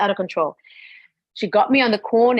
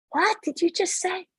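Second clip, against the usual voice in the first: high, incredulous retort; shocked disbelief; 10 semitones higher, 4 dB quieter than usual. Retold or imitated. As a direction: retell a stunned comeback, pitched up. Acted shock at sister's claim.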